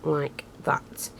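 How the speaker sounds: soft whisper while working. Real, not acted. Crafter showing viewers the step, whispered. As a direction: breathe it out as a whisper.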